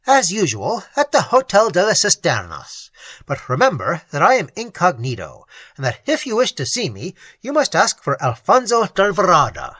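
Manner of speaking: a hint of a secretive marquis; confident nobleman. Raymond answers.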